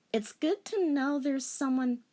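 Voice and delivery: high melodramatic sigh; melodramatic anime girl. Acted. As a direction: play up the heroine's hurt. Girl character.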